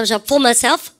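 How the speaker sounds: "for myself" said slowly for learners to repeat; pronunciation model. Shown as a demonstration. Teacher has class repeat the English phrase, pronunciation model. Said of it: "발음 갖다".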